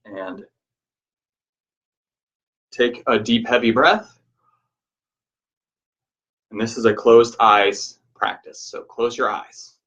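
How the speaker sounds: measured, even guiding voice with long pauses; guided meditation. Real, not acted. Teacher guiding listeners to reflect on change, guided meditation.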